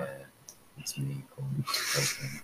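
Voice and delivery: slow, deep mock Corpse voice; lightly done deep streamer impression; corpse husband bit. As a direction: drag it out low like Corpse. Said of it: "We tried to do the corpse husband bit, and your voice instantly cracked".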